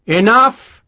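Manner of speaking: sharp loud command, pitch jumping up; a barked order to stop the quarrel; snapped. A narrator's reading. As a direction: cut them off hard. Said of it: "Sharp snapped".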